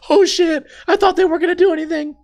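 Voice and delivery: high-pitched, hurried panicked yelp; mock shock. Boaster whose house got shot up, comically shocked. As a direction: squeal it like a startled kid caught out.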